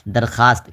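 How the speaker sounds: teacher's clear درخواست, pronounced "darkhaast"; silent vao. Shown as a demonstration. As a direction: say درخواست as "dar-khaast", no w sound. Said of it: "تو اس درخواست میں جو واو ہے".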